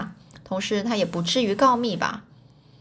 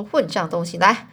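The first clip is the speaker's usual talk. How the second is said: angry; 3 dB louder than usual. Acted. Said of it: "就很生气了".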